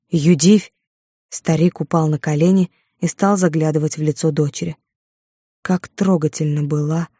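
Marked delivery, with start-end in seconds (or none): 0.1-0.7 louder rising call of the name; anguished cry. Acted. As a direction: cry out her name in grief. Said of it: "С криком". (крик отца, громче, с подъёмом)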